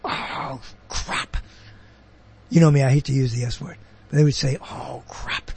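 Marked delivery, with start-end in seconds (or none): 0.0-1.4 whispered quiet curse; low. Retold or imitated. Mimicking people who curse softly, hushed whisper. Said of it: "Like some people go". 4.6-5.5 hushed unvoiced "Oh, crap."; low. Mimicking people who say it low, whispered. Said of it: "Low, or they go".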